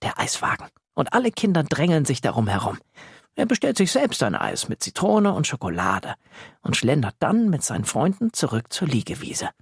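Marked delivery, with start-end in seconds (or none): none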